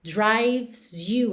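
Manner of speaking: "Drives you" said "draivz you"; v straight into s in "Drives"; silent e in drives. Shown as a demonstration. Teacher showing "Drives" without its e. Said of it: "o E de drives também não é pronunciado".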